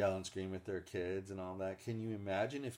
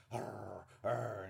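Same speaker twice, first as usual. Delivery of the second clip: playful growl. Retold or imitated. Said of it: "playful growling at them".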